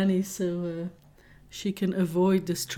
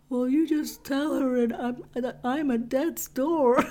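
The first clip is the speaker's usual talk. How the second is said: mock dying partner; 5 semitones higher than usual. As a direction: imitate a partner overdramatising an illness. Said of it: "And you said".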